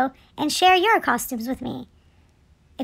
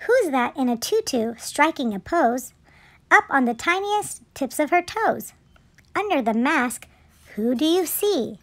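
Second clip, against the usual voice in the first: measured picture-book narration; children's story reading. A narrator's reading. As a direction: read it aloud to little children.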